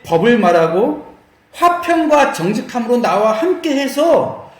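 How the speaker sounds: measured, projected Bible reading; scripture reading. Acted. Preacher reading God's words about Levi to the congregation, declaimed. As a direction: read out God's words, deliberately.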